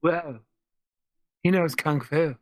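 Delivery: lightly voiced actor impression; Keanu. Co-host joking about a movie star joining the game, light impression. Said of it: "Is that your Keanu voice?".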